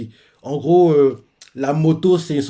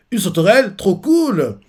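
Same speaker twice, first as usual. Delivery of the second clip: much higher, louder thrilled squeal; amazed delight; 7 semitones higher, 5 dB louder than usual. Retold or imitated. Luffy thrilled at the grasshopper bike, high squeal. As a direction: gush like a kid seeing a bug. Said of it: "Il adore ce genre de choses".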